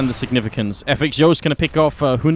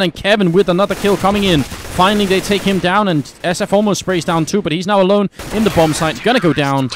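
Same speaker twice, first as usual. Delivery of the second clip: raised, urgent commentary on the action; excited play-by-play; 5 semitones higher, 3 dB louder than usual. Acted. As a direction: call the fight louder and higher. Live round being called.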